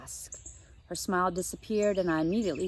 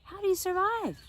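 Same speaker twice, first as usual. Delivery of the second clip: put-on much higher, astonished girl; amazed question; 12 semitones higher than usual. Josie asks Vanessa in disbelief how she survives. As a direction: ask it in amused disbelief.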